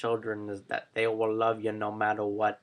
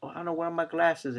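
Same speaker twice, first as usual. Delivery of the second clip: gentle father; 5 semitones higher, 4 dB quieter than usual. Retold or imitated. Father gently questions his daughter.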